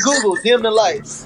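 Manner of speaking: laughing. Retold or imitated. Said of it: "the nigga said".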